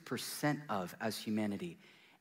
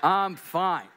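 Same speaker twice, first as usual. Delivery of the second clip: loud, laughing insistence; 6 semitones higher, 9 dB louder than usual. Real, not acted. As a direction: laugh it off loudly. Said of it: "everything is fine".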